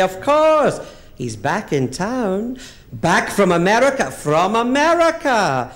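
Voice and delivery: gossiping Jewish auntie; mock Jewish old lady. Two old Jewish friends gossiping, sing-song. Jewish women dialogue, put-on voices.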